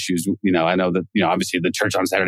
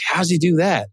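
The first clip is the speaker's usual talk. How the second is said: mock bewilderment; 9 semitones higher than usual. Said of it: "I'm like".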